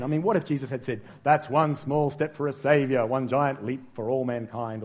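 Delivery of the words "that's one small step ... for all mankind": moon landing quote. Pretend. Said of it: "the guy who landed on the moon".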